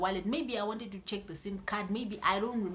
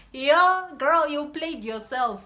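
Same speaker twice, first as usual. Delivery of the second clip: mock teasing; 4 semitones higher, 9 dB louder, slower than usual. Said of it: "she's like".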